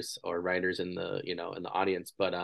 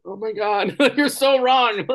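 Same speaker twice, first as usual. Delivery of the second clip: higher, louder, slow, laughing mock outburst; laughing mock disbelief; 14 semitones higher, 8 dB louder, slower than usual.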